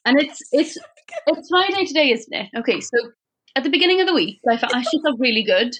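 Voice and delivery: put-on light Welsh accent, lilting. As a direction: tell the story in a Welsh accent. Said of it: "Could you please do it in a Welsh accent?".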